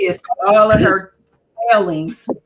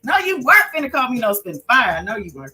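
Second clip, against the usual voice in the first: mock outrage; 4 semitones higher, faster than usual. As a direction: play-act being offended. Mock outrage at spit fire.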